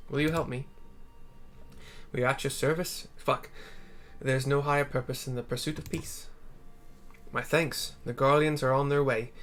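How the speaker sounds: a hint of a steady ruler; lightly voiced resolute lord. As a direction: lay out the plan calmly.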